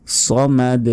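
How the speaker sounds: সামাদ ending with a jolted echoing d; bounced final d. Shown as a demonstration. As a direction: punch the end of সামাদ. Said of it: "শেষে ধাক্কা দিতে হবে".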